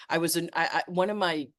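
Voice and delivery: stumbling over false starts; upset stutter. Real, not acted. Host upset about misinformation, stuttering. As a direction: trip over the first words, upset. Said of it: "I'm so upset, I'm stuttering".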